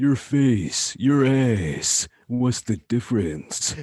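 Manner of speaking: very slow, deliberate, every word drawn out. Copying a Duke Nukem line to get feedback on it: Duke Nukem impression. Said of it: "Sam's impression of the Duke".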